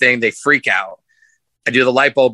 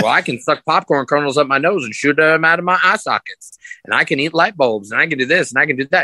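higher and rushing, listing his tricks; quick, eager sales pitch; 5 semitones higher than usual. Retold or imitated. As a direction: sell it fast and keen, tumbling through the list. Pitching his act to the producer.

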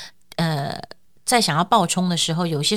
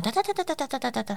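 typing clicks; 7 semitones higher, 9 dB quieter than usual. Retold or imitated. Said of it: "我自己会有一个电脑这样".

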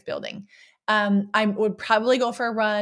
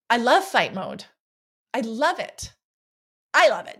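excited love. Real, not acted. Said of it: "I was so excited".

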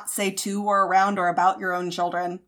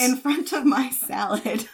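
laughing through the words, slow; giggling protest; slower than usual. Real, not acted. Laughing at husband's teasing, slow giggling protest. Laughing at partner's podcast tease.

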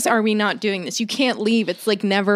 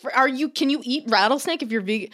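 retold disbelief; 5 semitones higher than usual. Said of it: "I'm like".

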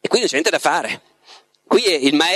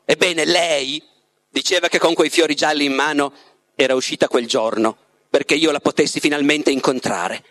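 measured literary narration with pauses; story narration. A narrator's reading. The Master recounts his love to Ivan, measured storytelling. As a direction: read the Master's tale unhurriedly, phrase by phrase. Reads the novel aloud, as the Master.

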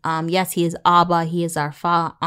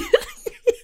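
high-pitched giggling fit; laughing. Real, not acted. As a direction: crack up at your own joke. Cracks up at own outburst.

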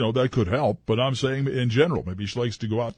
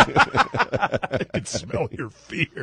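slow menacing voice; much slower than usual. Acted. Menacing fiancée.

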